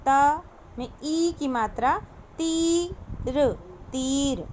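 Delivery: तीर with a slow stretched ee; teacher stretching the ee in तीर; drawn-out long ee. Shown as a demonstration. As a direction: read तीर slowly, holding the long vowel. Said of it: "तो देखिए, पहला है आपका".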